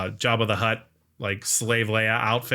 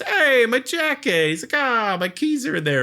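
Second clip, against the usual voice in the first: mock excited exclamation; 10 semitones higher than usual. Podcaster as Ahab spotting his jacket, high mock excitement. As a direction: imitate delight at spotting lost belongings.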